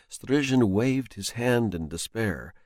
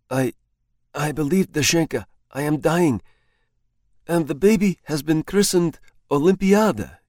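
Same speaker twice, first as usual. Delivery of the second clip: lightly raised voice of a man who thinks he's dying; frightened husband; 5 semitones higher, 3 dB louder than usual. Acted. Husband confesses to his wife he's drunk paraffin, mildly alarmed. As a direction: tell her of your doom in alarm.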